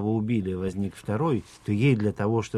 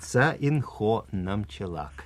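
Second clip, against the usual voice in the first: dictating syllable by syllable; slower than usual. Shown as a demonstration. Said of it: "Ещё раз диктую по слогам".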